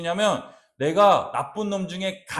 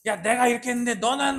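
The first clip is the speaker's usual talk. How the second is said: mock quarrel; 7 semitones higher, faster than usual. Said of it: "막 이러면서 막 서로 싸워".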